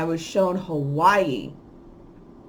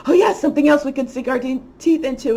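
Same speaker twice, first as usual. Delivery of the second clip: fast, higher, hammed-up eager voice; mock eager glee; 5 semitones higher, faster than usual. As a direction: mimic them craving the next scare. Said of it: "It's like".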